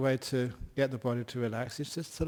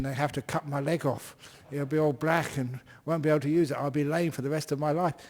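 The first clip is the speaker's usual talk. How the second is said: retold panic. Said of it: "I was watching that feeling with fear".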